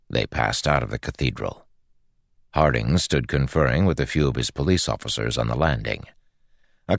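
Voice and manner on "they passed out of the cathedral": usual speaking voice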